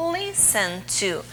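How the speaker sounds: listen said with the LIS syllable stressed, a little slow; teacher confirming the stressed syllable of listen; stress on first syllable. Shown as a demonstration. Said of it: "Qual que é a tônica? O li ou o sen?".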